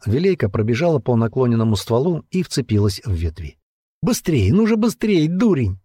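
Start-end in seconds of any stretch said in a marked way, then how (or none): 4.0-5.8 near tears. A narrator's reading. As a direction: beg him, almost crying. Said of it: "чуть не плакала она".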